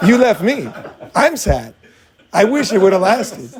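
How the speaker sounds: can't keep a straight face; laughing through it. Pretend. Boyfriend faking sad breakup lines, laughing through.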